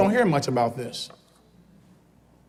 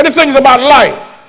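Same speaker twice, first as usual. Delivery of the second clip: model line to repeat; 6 semitones higher, 9 dB louder than usual. Shown as a demonstration. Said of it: "Turn to somebody and say".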